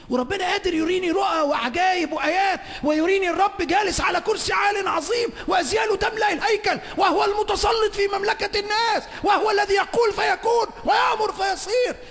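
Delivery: a preacher thundering before the congregation; full-force preaching. Acted. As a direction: preach it out at the top of your voice. Preacher proclaims God's majesty.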